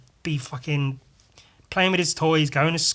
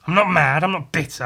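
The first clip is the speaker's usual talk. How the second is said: mock denial; 6 dB louder than usual. Real, not acted. Denies anger loudly.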